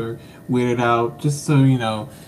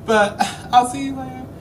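very high, squeaky mock crying; tearful farewell; 10 semitones higher than usual. Host signing off to audience needing a tissue, mock-tearful. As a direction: sob through the goodbye with gasps, hammed up. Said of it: "I need a tissue".

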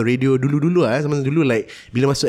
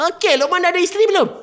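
mall MC voice; much faster than usual. Retold or imitated. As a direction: grill the kid like a cheesy mall MC. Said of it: "the M Cs at the Giant".

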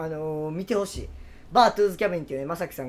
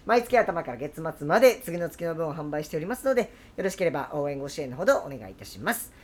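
smooth, even sponsor-announcement read; polished on-air announcement; announcer read. Acted. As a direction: read the plug like a radio host.

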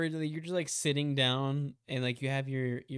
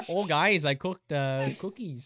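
hint of a mock sitcom character; Charlie Sheen; 3 dB louder than usual. Friend imitating a sitcom star to friends, mock voice. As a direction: lightly imitate the TV bachelor, hesitating. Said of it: "when Charlie Sheen be like".

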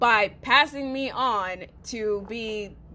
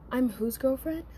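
incredulous question; 5 dB quieter than usual. Retold or imitated. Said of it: "I said it just like that".

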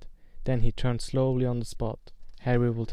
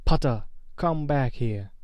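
mild shout. Acted. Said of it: "Quirrell shouted".

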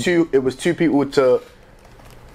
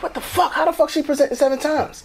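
mock disbelief; 10 semitones higher than usual. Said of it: "I'm like".

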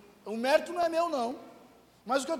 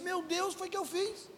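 hushed, pitched-up plea to God; soft lament; 7 semitones higher, 7 dB quieter than usual. Retold or imitated. Pastor retelling his plea to God, softly. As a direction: breathe it out like a broken prayer. Retold cry to God, quiet.

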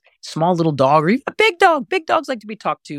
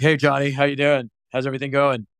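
put-on plain low-pitched greeting to a child, unlifted; low adult voice. Shown as a demonstration. Coach shows how not to greet little Johnny, low unlifted voice. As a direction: keep it down in the chest, no lift. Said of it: "you don't wanna talk to Johnny like".

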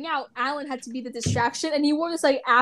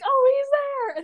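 high-pitched mock excited cry; excited squeal of discovery, hammed up; excited crowd; 12 semitones higher, much slower than usual. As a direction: imitate fans spotting their idol. Retold crowd spots the star.

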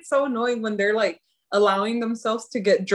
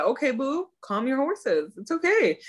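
higher, sing-song calming; mock soothing; 4 semitones higher than usual. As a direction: soothe him playfully, pitch lifted on the end. Mock-soothes the upset character.

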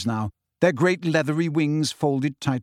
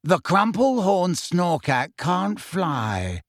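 slow, higher, dignified character voice; stately, drawn-out correction; 5 semitones higher, much slower than usual. A narrator's reading. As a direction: correct them with great dignity. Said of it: "said Luna in a dignified voice".

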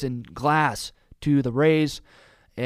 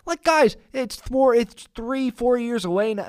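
exasperated; 6 semitones higher than usual. Real, not acted. Exasperated at fans still asking.

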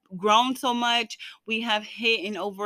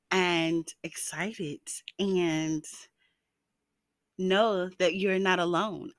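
reassuring; 2 semitones lower, slower than usual. Real, not acted. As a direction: comfort a lonely listener gently. Reassuring lonely listeners on Valentine's.

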